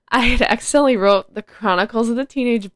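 giggling through it; laughing. Real, not acted. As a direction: laugh at the typo. Laughing at own mistake.

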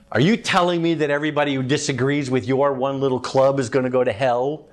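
mock the believer with scornful, rapid questions; a hostile skeptic sneering at your little club; sarcastic attack. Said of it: "Can you tell by the tone of voice there?".

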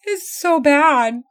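drawn-out teasing "so bad"; slow teasing. Real, not acted. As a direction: stretch it out, mock disgusted. Teasing about the bad poem.

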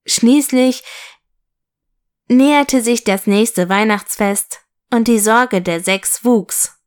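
put-on lively storyteller reading to children; story narration. A narrator's reading. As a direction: read it like a bedtime story, voicing the figures. Reads a children's story aloud. (lebhaft vorgelesene Kindergeschichte)

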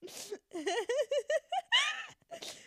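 squealing high laugh; high shrieking laugh. Real, not acted. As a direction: burst into a shrill laugh.

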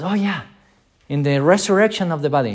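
mock dismissive. Martha answers Jesus dismissively.

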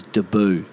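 debut said "duh-BOO"; Aussie "duh-BOO" for debut; Aussie pronunciation. Shown as a demonstration. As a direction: flatten debut into "d'boo". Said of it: "that the Aussies say, though, for sure".

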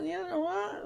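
put-on high Valley Girl voice, questions swooping up; exaggerated Valley Girl uptalk; Valley Girl accent. Shown as a demonstration. Demonstrating how the character is written, Valley Girl accent. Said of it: "impression of a Valley Girl accent".

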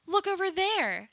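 high, slow sing-song distraction; drag queen politician. Retold or imitated. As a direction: point away grandly, high and slow. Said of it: "her thing is".

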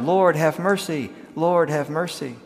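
slow, drawn-out cheering cry; crowd shouting to emperor. Retold or imitated. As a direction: hail the passing emperor, slowly.

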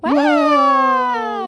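high, loud excited "Wow"; big excited "Wow". Acted. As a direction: shout "Wow" in delight. Echoing the recording playback.

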